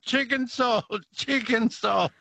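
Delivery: high, gleeful chant of "chicken salt" with a laugh; British mate holding the bottle overhead, gleefully yelling; mock yelling. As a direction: parade it round the room overjoyed.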